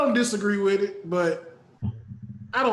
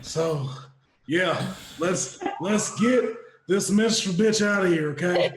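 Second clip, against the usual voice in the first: wheezy goblin. Pretend. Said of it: "kinda go like this 'cause I'm kinda round".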